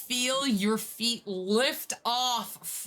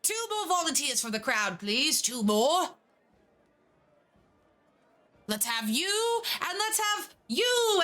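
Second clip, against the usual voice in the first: upbeat showman calling to the crowd; rally the crowd like a ringmaster; carnival host; 5 semitones higher than usual. Acted. Host calls for volunteers.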